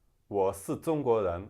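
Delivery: loud southern accent, s and z for sh and zh; southern Chinese accent, soften r into l; southern China accent. Shown as a demonstration. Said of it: "it might be".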